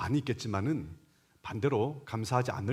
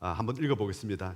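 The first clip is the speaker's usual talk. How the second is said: ordinary talk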